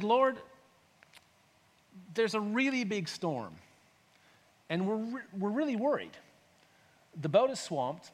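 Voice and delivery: measured plea with long pauses; composed, trusting request; calm appeal. Shown as a demonstration. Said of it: "nearly as calmly as I did".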